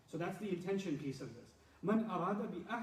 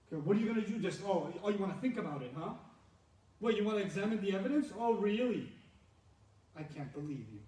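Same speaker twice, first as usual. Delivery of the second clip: mocking taunt; 3 dB louder than usual. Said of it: "my acting performance".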